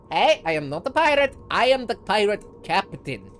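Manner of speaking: loud, high, self-important correction; indignant boast. Acted. Pirate captain answering the mage's insult, indignant. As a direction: correct him loudly and proudly.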